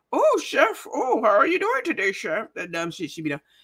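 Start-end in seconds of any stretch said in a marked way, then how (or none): 0.1-2.5 fake TV chef voice, pitch swooping up and down. Mocking how a woman talked on camera while cooking, in a fake Julia Child voice. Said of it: "talking that fake ass Julia Child's voice".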